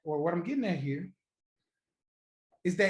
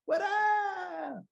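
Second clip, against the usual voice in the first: rising, teasing come-on voice; mock flirty ask; 5 semitones higher than usual. Teasing a date about buying her purse, rising higher. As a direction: egg her on to buy the purse. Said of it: "y'all went crazy when I said".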